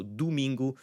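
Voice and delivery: "domingo" as "doo-MEEN-goo"; both O's in "domingo" turned to oo; O as U sound. Shown as a demonstration. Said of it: "more of a U sound".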